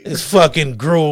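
slow, drawn-out mock outrage at the gruel; indignant how dare you. Friend retelling refusing a restaurant's grits, slow outrage. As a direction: look down your nose at the bowl, slowly. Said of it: "I was like".

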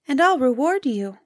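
high, piping bird voice; talking grouse. A narrator's reading. Grouse makes the hunter a promise.

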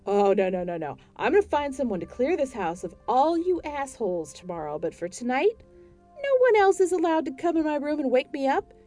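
loud, high furious shout; woman shouting at ghosts, slowing at the end. Acted. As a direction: order them all out at full volume. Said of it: "A D Bryant shouted".

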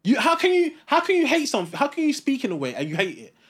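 worked-up, impassioned complaint; passionate. Real, not acted. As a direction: argue your grievance with real passion. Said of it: "I love his passion".

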